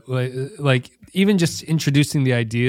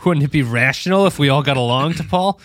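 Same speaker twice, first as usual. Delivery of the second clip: mock Archer plea; 2 semitones higher than usual. Teasing T'Pol in Archer voice.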